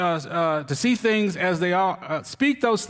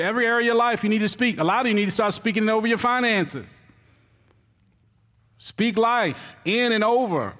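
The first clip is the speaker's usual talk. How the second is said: rising preaching; 2 semitones higher than usual. Acted. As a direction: build the call line by line. Preaching repeated call to congregation.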